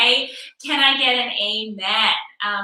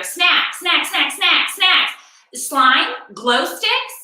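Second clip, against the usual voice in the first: mocking kids' demands; 4 semitones higher, much slower than usual.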